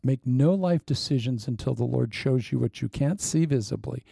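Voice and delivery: ordinary talk, nothing marked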